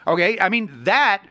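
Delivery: mock-grave sarcasm, leaning on key words; heavy, emphatic sarcasm; sarcastic. Real, not acted. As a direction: overstate it as if it were a grave matter. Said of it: "the sarcasm is getting pretty close".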